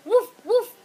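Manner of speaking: dog barking. Shown as a demonstration. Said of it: "Okay, you forgot. It's".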